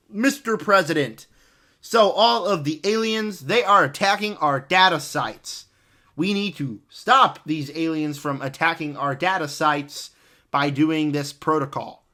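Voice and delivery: dead flat, no emphasis, like reading a script cold; flat monotone read. Retold or imitated. A rapper giving the president a debrief, totally flat. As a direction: drone it with zero effort. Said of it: "that had no emphasis on it".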